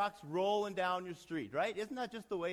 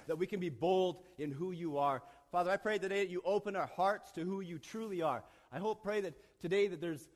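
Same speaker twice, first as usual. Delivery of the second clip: public prayer. Real, not acted. Leads the opening prayer.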